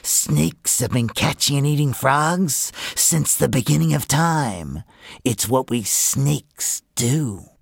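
slow, deliberate mother snake; drawn-out, menacing snake mother; stern mother snake. Acted. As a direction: warn your child, slowly and firmly.

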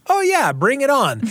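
breezy, high and carefree; nonchalant. Retold or imitated. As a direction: toss it off like it's nothing. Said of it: "the nonchalance with which we just say".

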